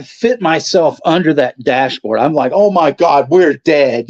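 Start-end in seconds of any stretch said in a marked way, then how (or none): 2.5-4.1 mock panic. Terrified in the car.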